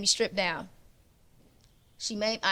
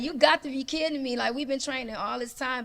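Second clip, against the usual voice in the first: incredulous trainer; 5 semitones higher, 4 dB louder than usual. Retold or imitated. Trainer's disbelief retold.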